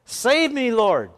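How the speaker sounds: high, loud plea for help; desperate shout. Acted. Peter sinking in the waves, desperate high shout. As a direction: cry out as you sink. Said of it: "he shouted".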